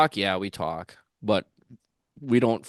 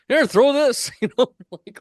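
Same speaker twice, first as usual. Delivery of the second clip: high, loud imitation of Clayton; eager offer; 9 dB louder than usual. Clayton handing the bait over, high and loud.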